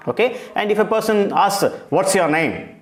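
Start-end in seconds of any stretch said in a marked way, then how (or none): none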